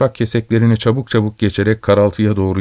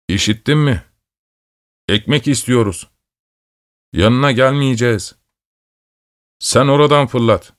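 raised, fretful calling, building in pitch; hırçın ve ümitsiz; 4 semitones higher than usual. A narrator's reading. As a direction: call across with mild desperation, climbing toward the last demand. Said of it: "bir hırçınlık ve ümitsizlik titremesiyle". (giderek yükselen hırçın, ümitsiz seslenme)

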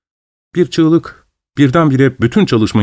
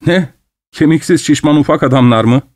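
mocking; 4 semitones higher than usual. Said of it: "biraz alay ederek".

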